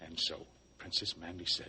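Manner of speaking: ordinary talk, nothing marked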